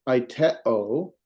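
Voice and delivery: AITEO with weight on the middle TE; accented-syllable stress. Shown as a demonstration. Teacher summing up accent rule, middle syllable stressed. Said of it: "put the stress on that syllable".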